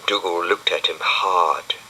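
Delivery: usual speaking voice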